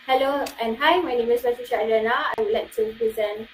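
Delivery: lively intro with shifting pitch; varied tones. Shown as a demonstration. Student shows the lively way to introduce yourself, varied tone. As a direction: let the pitch move as you greet. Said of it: "the other one is like".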